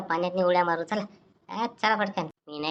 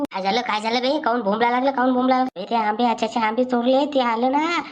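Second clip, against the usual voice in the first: tag; 5 semitones higher, 3 dB louder than usual. Acted. Panicking to hide stolen mangoes.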